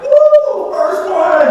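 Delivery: high, loud whoop of a first win; hammed-up triumphant cheer; mock celebration. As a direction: cheer like you just scored. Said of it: "an excitement like".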